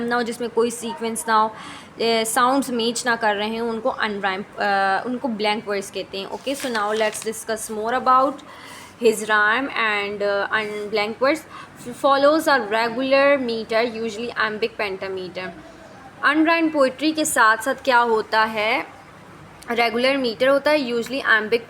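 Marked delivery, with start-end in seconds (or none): 6.3-15.5 slow, deliberate dictation of English notes; reading notes aloud. Shown as a demonstration. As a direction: read each word out slowly for the class. Reads English notes slowly.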